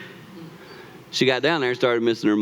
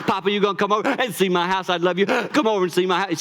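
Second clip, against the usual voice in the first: put-on little girl voice; 5 semitones higher, faster than usual. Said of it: "That's just the way she talks".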